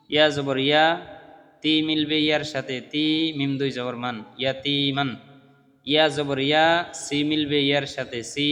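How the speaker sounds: unhurried spelling-out with long vowels held; measured teacher's drill recitation; taking time. Shown as a demonstration. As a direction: demonstrate each joined syllable patiently, pausing between parts. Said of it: "একটু সময় নিয়ে আমরা এইভাবে করব".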